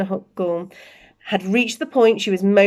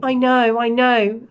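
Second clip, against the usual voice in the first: heavily; 3 semitones higher, 4 dB louder, slower than usual. Acted. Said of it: "he said heavily".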